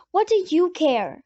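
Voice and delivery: put-on a hurt kid lashing out at her sitter; angry. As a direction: snap back resentfully, slowing down. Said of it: "You sound mad".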